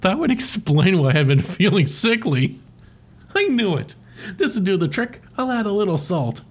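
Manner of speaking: octopus voice. Retold or imitated. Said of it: "He's like".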